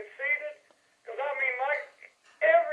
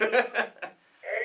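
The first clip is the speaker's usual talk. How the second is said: chuckling through the words; laughing; 3 semitones lower than usual. Real, not acted. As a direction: laugh as you say it. Laughs at partner's Rumble joke.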